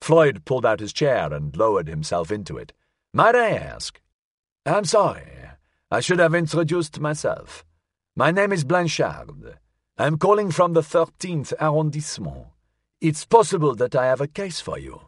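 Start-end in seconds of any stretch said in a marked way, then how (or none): 3.1-15.0 put-on high, courteous old gentleman; elderly man. A narrator's reading. Elderly Blanchard introducing himself to the detective, high old voice. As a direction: introduce yourself in a pitched-up old man's voice. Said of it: "sounded as if it belonged to an elderly man".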